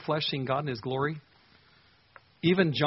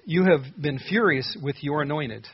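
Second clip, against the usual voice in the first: slow, louder, leaning on furious; pained accusing read; 5 dB louder, slower than usual. Acted. Reading the psalmist's complaint to God, pained and loud. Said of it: "It's almost hard to read this".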